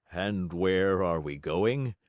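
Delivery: put-on slow, frail old man; tired old father wondering aloud; weary old father. Weak old Geppetto asks.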